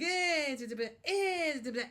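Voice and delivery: lightly voiced shrugging bystander; mock shrug. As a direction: shrug it off like nothing. Imitating shrugging old-days people.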